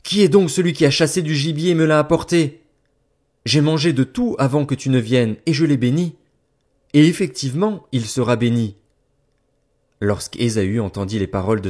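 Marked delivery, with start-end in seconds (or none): 0.0-8.8 high, loud, shaken outburst; a blind father overwhelmed by what he has done; violent emotion. Acted. Isaac, realising the trick, to Esau: high, loud, shaken. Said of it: "d'une violente émotion et dit".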